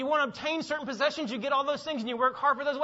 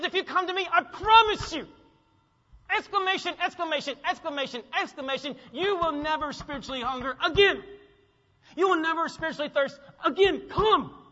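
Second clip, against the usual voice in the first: higher, louder, rising to a fervent call; emphatic promise; 5 semitones higher, 4 dB louder than usual. Acted. Preacher voicing Jesus's double-negative promise, fervent and high. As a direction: preach it with mounting fervor. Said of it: "So what Jesus is saying is".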